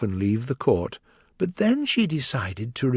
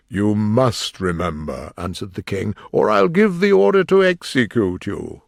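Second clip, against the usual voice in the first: stern king voice; 2 semitones lower, 4 dB louder than usual. Acted. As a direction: menace the witness like a king. The King threatening.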